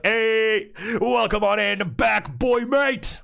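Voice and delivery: high, loud welcome-home call; excited greeting. Real, not acted. Streamer greeting her boyfriend home from work, loud and excited. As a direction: call out happily as he walks in.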